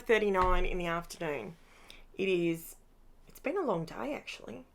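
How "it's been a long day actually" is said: tired. Real, not acted.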